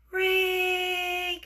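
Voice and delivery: high, held ring on one note; imitated phone ring. Phone rings during a couple's dinner, imitated ringing.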